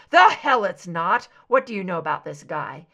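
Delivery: loud, fast jealous demand; angry shout. Acted. Mulder confronts Scully about her boyfriend, loud and fast. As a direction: bark it at her, then rush the question.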